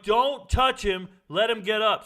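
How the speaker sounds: drawn-out warning yell, retold. Soldier telling others to leave the fallen runner, retold yell. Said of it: "So I yell to him".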